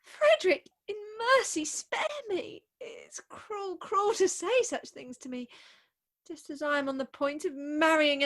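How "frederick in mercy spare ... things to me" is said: high cry fading to tearful softness; tearful plea. Acted. Bride begging the suitor to stop, tearful plea. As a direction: beg for mercy near tears.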